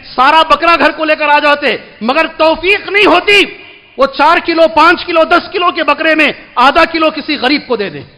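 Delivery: high, pressing exhortation; forceful preaching. Real, not acted. Preacher urging listeners to give meat to the poor, forceful preaching. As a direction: hammer it home to the congregation.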